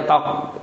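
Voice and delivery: spoken imitation of one tap; knocking sound. Preacher imitates Musa striking the rock once, short tok. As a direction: make a short knock with the mouth. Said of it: "pukul sekali".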